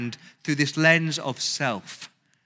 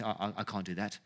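timid refusal; 7 semitones lower, 13 dB quieter, faster than usual. Retold or imitated. Believer refusing God's command.

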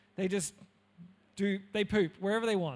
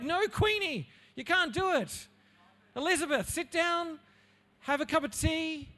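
flustered protest; 5 semitones higher than usual. Retold or imitated. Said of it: "You'd be like".

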